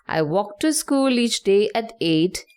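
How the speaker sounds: "I walk to school each day at eight" with every second syllable stressed; iambic stress. Shown as a demonstration. Teacher demonstrates four iambs in one line, iambic stress. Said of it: "you'll hear that da-dum".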